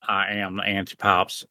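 low, soft menacing villain. Pretend. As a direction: gloat like an anime final boss. Plays the villain Anti-Pops.

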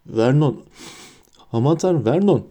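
gasped, horrified appeal; choked alarm. A narrator's reading. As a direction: cry out to your husband in shock. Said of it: "hırıltılı bir ses çıkardı".

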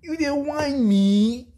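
very high, loud, slow and stretched; incredulous cry. Real, not acted. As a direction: cry out in mock disbelief. Incredulous Pidgin exclamation.

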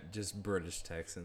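amused echo through a laugh; echoing the joke with a laugh; laughing repeat. Real, not acted.

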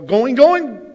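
high, loud building home-run call; baseball announcer. Retold or imitated. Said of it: "Or it's in baseball".

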